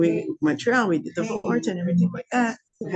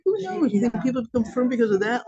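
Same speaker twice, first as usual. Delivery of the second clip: imitating him; 4 semitones higher than usual. Imitating fiancé dismissively.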